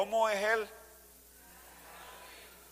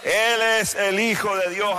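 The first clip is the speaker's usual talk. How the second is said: rising preacher's cry; 3 semitones higher, 4 dB louder than usual. Acted. Preacher declaring Jesus's identity.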